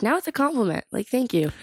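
high, breezy comeback; sassy retort. Retold or imitated. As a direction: brush off the insult proudly. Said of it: "I'm like".

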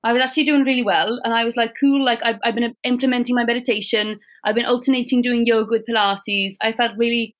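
put-on light Welsh accent, lilting. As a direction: tell the story in a Welsh accent. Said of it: "Could you please do it in a Welsh accent?".

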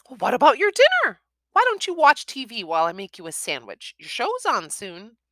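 high motherly coaxing; mother coaxes son to eat, high; coaxing mum. A narrator's reading. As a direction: tempt him gently as mum.

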